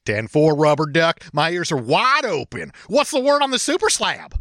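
lightly voiced trucker answering on the CB; trucker reply. Playing Big Bear, answering Rubber Duck on the CB, lightly voiced trucker. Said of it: "you'll be playing the part of Big Bear".

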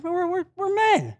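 stammered, high-pitched protest; mock indignation. Preacher voicing male pride to the congregation, mock indignation.

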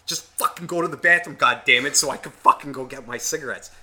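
exasperated snapping at the dog; fed up, hurry the dog along; irritated at the dog. Retold or imitated. Smoker without a cigarette, urging his dog to hurry. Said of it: "Yes, I did get angry at that".

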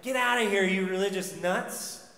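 mock angry driver yelling out the window; irritated driver shouting get lost. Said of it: "He's like".

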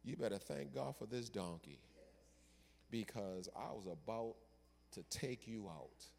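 quietly menacing threat; stern angel. Acted. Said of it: "the angel says".

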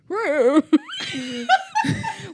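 loud high mock-singing wail; hammed-up falling howl; impression of a singer. Friend asked for an impression, loud comic wail. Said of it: "Do a Cher impression".

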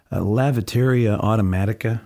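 halting attempt at Italian, as a question; American fumbling through Italian; bad Italian. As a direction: ask it in clumsy tourist Italian. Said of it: "in my bad Italian".

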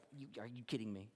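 a hushed, exasperated aside; exasperated Jesus. Acted. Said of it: "I wonder if Jesus is exasperated".

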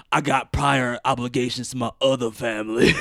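lightly voiced action-star impression; a half-hearted movie-star voice through laughter; Vin Diesel. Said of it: "That's your Vin Diesel voice?".

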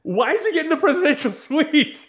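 high, loud laughing disbelief; incredulous. Retold or imitated. Host mocking Bond's hotel welcome, incredulous and loud. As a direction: rant it in mock outrage. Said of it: "And I'm like".

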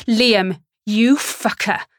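loud, slow furious curse; angry curse. Acted. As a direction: spit the insult out. I say as soon as he answers.

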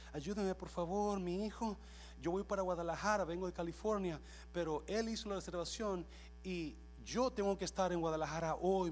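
imitated distressed mother, lightly pleading; retold pleading. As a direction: plead for help with a touch of urgency. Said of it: "llora y llora". (súplica imitada de una señora)

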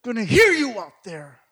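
high, urgent comic scolding; imitated hushing wife. Wife hushing husband so church won't hear, high-pitched mock scolding. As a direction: act out a frantic shushing.

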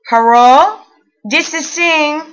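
put-on loud phone greeting in a thick Asian accent. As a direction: play the loan officer with a heavy Asian accent. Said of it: "thickest Asian accent I have ever heard".

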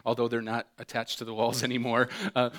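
usual speaking voice

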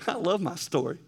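said through a light laugh; a happy chuckle on the words; laughing fondly. Real, not acted. Preacher telling the church he loves his story, laughing lightly.

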